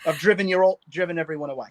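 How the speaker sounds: put-on Australian accent. Guest gives up the accent bit, in a mock Australian accent. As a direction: call it off in a jokey Aussie accent. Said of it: "well, now I'm Australian".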